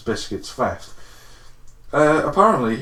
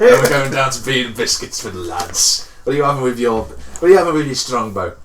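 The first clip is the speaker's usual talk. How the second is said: lightly voiced lad ordering, a touch louder; mock lad at the pub; 3 dB louder than usual. Joking friend imagines ordering at Beer and Biscuits, mock lad voice. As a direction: play a chirpy pub regular, half-hearted.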